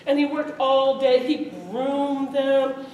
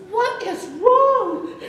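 high, slow, louder, dissolving into laughter; the question nearly swallowed by giggles; laughing through the line; 12 semitones higher, 4 dB louder, much slower than usual. Real, not acted. Father's line amid narrator's laughter.

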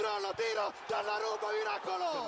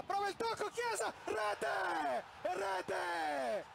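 breathless italian goal commentary. Real, not acted.

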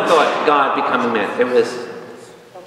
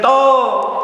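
high, louder "Tov"; God's voice; 10 semitones higher, 3 dB louder than usual. Retold or imitated. God pronouncing creation good, high and loud. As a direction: proclaim "Tov" as God declaring. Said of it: "he said".

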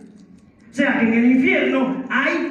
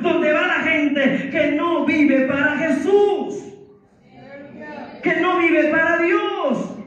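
preaching at full force; 3 semitones higher than usual. Real, not acted. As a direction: proclaim it to the congregation. Predica con fuerza ante la congregación. (prédica fervorosa a plena voz)

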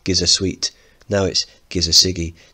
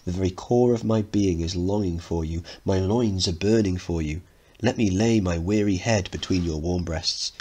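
mock romantic. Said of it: "you stare straight into her eyes and you say".

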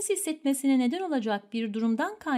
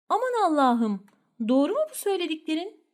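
surprised; 3 semitones higher than usual. Acted. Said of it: "şaşırma".

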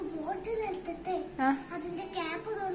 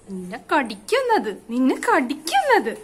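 drawn-out emphasis. Real, not acted. Talking to child about snake biting.

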